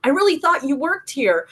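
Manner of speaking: apologetic man. Retold or imitated. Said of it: "He goes".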